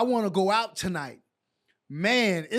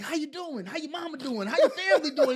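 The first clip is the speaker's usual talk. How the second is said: coach's friendly greeting; 6 semitones higher, 4 dB louder than usual. Retold or imitated. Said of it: "he'd be like".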